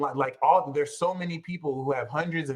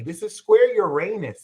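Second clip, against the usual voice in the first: excited; 4 semitones higher, 3 dB louder than usual. Retold or imitated. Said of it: "now you can walk into".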